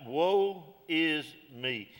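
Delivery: slow, drawn-out cry of woe; a touch of anguish, stretched slowly; mild lament. Retold or imitated. Isaiah crying out to God, slow mild lament. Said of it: "he cried out".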